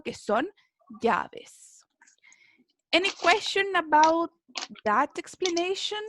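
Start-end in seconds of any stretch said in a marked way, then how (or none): 0.0-1.8 whispered aside. Real, not acted. Teacher glosses the word softly.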